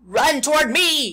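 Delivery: loud, high gander holler; gander yelling. A narrator's reading. The gander calling the runaway pig over, loud high yell. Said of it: "yelled the gander".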